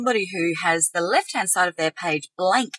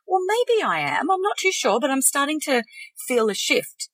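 hopeful but unsure, pitched up; uncertain, higher voice; 6 semitones higher than usual. Shown as a demonstration. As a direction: wonder aloud, half believing. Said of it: "the question mark".

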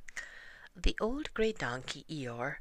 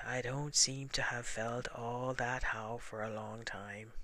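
gloomy Eeyore voice; 3 dB quieter than usual. Acted. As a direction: drag it out like a glum old donkey.

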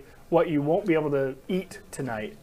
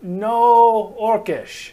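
beggar NPC; 6 semitones higher, 8 dB louder, much slower than usual. Acted. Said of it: "they're like".

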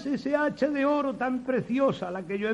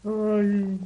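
fake lamenting. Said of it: "con falsas demostraciones de desconsuelo".

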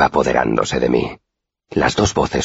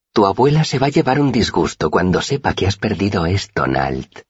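calm menace; 6 semitones higher than usual. A narrator's reading. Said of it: "dijo Pike con voz serena".

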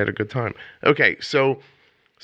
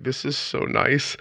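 high, slow, touched murmur; mildly hammed-up tender delight; retold choked-up gratitude; 6 semitones higher, 4 dB quieter, slower than usual. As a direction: act being moved, drawing it out. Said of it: "got all, like, kind of filled up".

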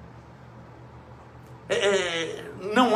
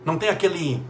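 ordinary talk, nothing marked

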